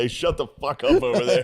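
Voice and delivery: high-pitched call from the back; imitated irritated heckle; mock heckler. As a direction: holler it across the room, annoyed.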